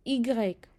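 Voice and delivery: इग्रेक said as "ee-grek", the French name of the letter Y; letter name said aloud. Shown as a demonstration. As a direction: say इग्रेक clearly. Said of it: "पढ़ के सुना देती हूँ".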